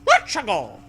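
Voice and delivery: put-on high, loud girl voice; Zoe voice. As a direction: mimic Zoe's pep. Echo in put-on voice.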